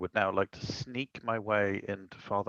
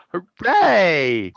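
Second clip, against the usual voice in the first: high, loud drawn-out hooray; loud cheer; 6 semitones higher, 12 dB louder than usual. Real, not acted. Player celebrating a lucky escape, cheering loudly. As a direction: cheer it out at full voice.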